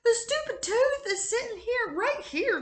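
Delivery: laughing. Real, not acted. Still laughing, pitch raised.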